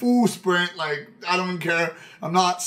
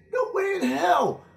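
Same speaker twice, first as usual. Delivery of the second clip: indignant shout; 13 semitones higher than usual. Retold or imitated. Denying to his friends that he wanted to stay, outraged shout.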